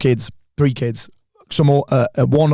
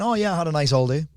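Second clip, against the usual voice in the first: mildly unenthused, softer throwaway report; indifferente; 2 semitones higher, 5 dB quieter than usual. Shown as a demonstration. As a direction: toss it off with little interest. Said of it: "See the difference there?".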